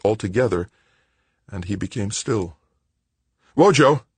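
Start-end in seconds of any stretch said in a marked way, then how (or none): 3.6-4.0 loud, high alarmed call; urgent shout, pitched up; yell. A narrator's reading. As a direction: yell out to a fallen friend. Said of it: "Paul yelled".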